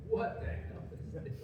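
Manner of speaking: breathy stunned whisper; whispered disbelief. Retold or imitated. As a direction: whisper it, shaken. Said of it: "so I was like".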